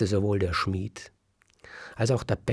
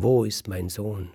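a slightly raised, mild mock cry; a mother's lighter cry for her son; smith's wife calls for her baby, less loud; milder frantic cry; 2 semitones higher, 5 dB louder than usual. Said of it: "schreit die Frau des Schmieds".

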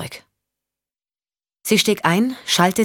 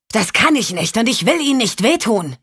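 a touch higher, restrained warning; Champ, tense; 5 semitones higher than usual. Acted. Champ refuses to explain.

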